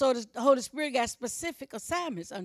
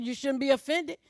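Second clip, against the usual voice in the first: ordinary delivery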